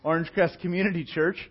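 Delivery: a touch of embarrassed laughter on the name; sheepish laughing answer. Retold or imitated. Pastor answering an intimidating lady at Sam's Club, laughing nervously. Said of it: "And I was like".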